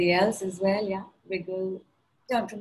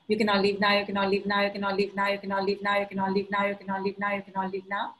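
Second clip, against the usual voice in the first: repeated mantra, fading; much faster than usual. Acted.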